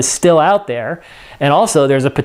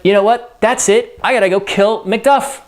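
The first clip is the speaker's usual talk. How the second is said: higher-pitched, lightly acted resolve; Macbeth; 6 semitones higher than usual. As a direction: announce you've made up your mind, pitched up. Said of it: "So Macbeth is like".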